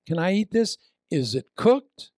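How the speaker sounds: a hint of a nervous traveller; anxious tourist. Preacher mocking a tourist eyeing a market apple, lightly fretful. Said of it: "They picked an apple up".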